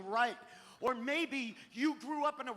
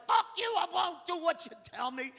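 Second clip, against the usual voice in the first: higher and louder rebellious snarl; defiant punk quote; 7 semitones higher, 6 dB louder than usual. Retold or imitated. Young fan quoting song lyrics, mildly raised defiant voice. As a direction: sneer it like a teen rebel. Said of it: "I was like".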